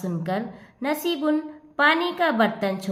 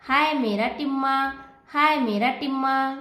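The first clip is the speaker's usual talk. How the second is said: mildly frantic lament; a touch of desperate wailing; distraught. Acted. Mother frantic about her son stuck in the pot, mildly distraught. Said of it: "बेताब होकर".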